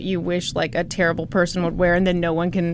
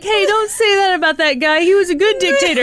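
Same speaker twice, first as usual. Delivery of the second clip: mock defensive; 9 semitones higher, 4 dB louder than usual. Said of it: "how often is it that you're like".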